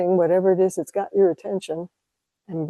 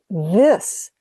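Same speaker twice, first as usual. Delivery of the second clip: put-on Japanese accent; 4 dB louder than usual. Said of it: "he had a pretty heavy Japanese accent".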